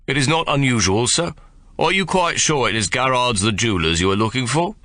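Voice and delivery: politely block his way; lightly voiced superior doorman; haughty doorman. A narrator's reading. Doorman questions the soldier.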